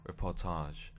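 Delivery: reportage with a French accent. Shown as a demonstration. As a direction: say reportage the French way, stress on the end. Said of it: "I've said that like I'm French".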